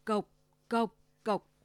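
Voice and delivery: mock knock on the door, voiced; wolf knocking at grandma's door; knocking sound. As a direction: tap out the knocks with the voice. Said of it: "Sói ta gõ cửa".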